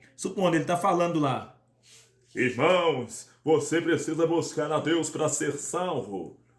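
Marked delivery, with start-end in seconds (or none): 2.4-6.3 thick, heavy, slow, deep preacher voice. Demonstrating bass settings with a pastor speaking; deep, heavy pastor voice. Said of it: "o pastor está falando grossão".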